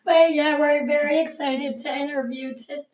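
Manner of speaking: breathless and hoarse; short of breath and hoarse from a sinus infection; lost voice. Real, not acted. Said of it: "I can't even breathe when I talk".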